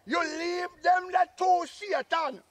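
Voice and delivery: drawn-out shout of outrage; slow ranting shout. Acted. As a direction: bellow it out slowly. Uncle rants about the two kids.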